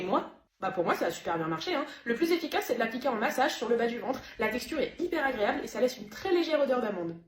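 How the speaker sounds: normal talking voice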